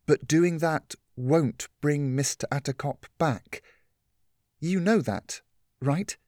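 a hint of a kind older friend; gentle Catherine. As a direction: coax her gently toward the truth. Catherine voiced by narrator.

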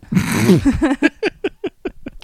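drawn-out laugh rising high; long laugh. Real, not acted. Laughing at her own joke.

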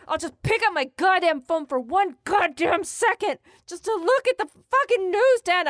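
high, bubbly, climbing squeal; overexcited gushing to Dan; giddy chatter. Retold or imitated. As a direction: babble happily, pitch running up. Giddy in the bathtub.

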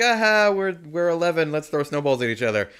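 put-on excited kids. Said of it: "we were just like".

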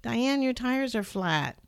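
high called-out greeting from afar; mock shout. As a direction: call out to her across the yard. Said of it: "he shouted at me".

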